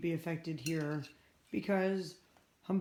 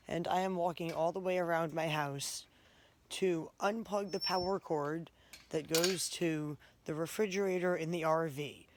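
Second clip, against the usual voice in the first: shivering with cold. Real, not acted. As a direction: voice trembling from the freezing night. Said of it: "Sorry, I'm freezing cold and shivering".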